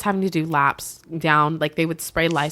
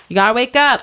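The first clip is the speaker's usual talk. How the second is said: raised, louder voice to wake someone; retold rousing call; 6 semitones higher, 4 dB louder than usual. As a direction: imitate a medic rousing a patient. Paramedics trying to wake him.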